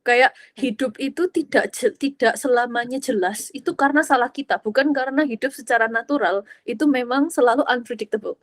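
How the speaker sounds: ordinary talk, nothing marked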